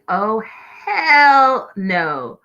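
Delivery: mock yell at the TV, half earnest; retold yell at the TV. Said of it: "This is the part that I screamed at the T V".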